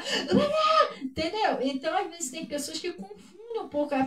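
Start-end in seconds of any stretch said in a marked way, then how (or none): 0.0-1.0 high, wild mock scream; mock exorcist scream. Mimicking what Jesus did not do to demons, mock scream. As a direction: let out a hammed-up shriek. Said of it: "Jesus não ficava".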